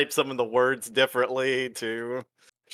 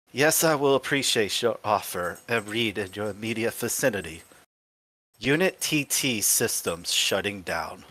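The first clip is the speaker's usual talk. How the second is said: robot powering down; 5 semitones lower than usual. Acted. TikTok accepts an offer before shutdown, low robot voice. Robot comes round, then shuts down.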